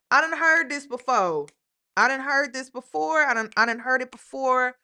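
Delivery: loud and sure, been there; knowing. Real, not acted. Reactor to viewers, loud knowing call-out. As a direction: call it out like you've seen it all.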